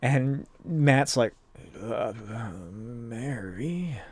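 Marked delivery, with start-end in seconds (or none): 1.8-4.0 very quiet, name stretched long. Retelling a comic scene where Matt wakes up, saying Mary very softly. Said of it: "he says Mary very softly".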